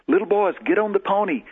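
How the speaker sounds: high-pitched imitation of a woman; lightly voiced woman inviting children; woman's call. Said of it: "and she says".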